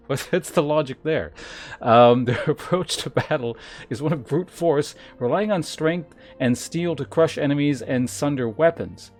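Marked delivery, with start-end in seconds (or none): 2.3-9.1 emphatic, measured reading of lore; game text read-aloud. Acted. Streamer reads gladiator class lore to chat, emphatic read-aloud. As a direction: announce each class description with weight.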